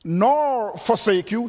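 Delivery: NOR drawn out slowly before "forsake you"; emphatic negation. Shown as a demonstration. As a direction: lean long and hard on "nor". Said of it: "he uses three nots or negatives".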